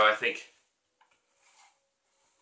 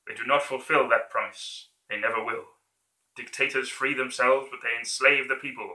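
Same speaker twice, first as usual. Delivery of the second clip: building to a rousing shout; rally the soldiers, rising louder; dictator speech; 3 dB louder than usual. Acted. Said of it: "that version of his speech".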